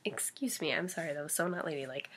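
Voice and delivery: soft whispered apology. Real, not acted. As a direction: whisper it under your breath. Apologizing after a burp on camera.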